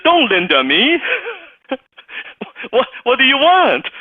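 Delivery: high, loud mock outrage; exasperated retort. Assistant cutting off a caller who used her name, high and loud. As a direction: snap back at the overly familiar caller.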